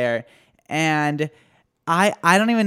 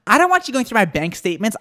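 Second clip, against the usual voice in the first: angry; 6 semitones higher, 5 dB louder than usual. Retold or imitated. Quoting the angry customer.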